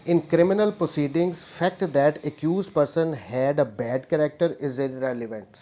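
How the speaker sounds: slow, deliberate dictation of the law text; reading the statute. Shown as a demonstration. Law teacher reading the act aloud to students, slow dictation pace. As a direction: spell it out word by word so students can note it down.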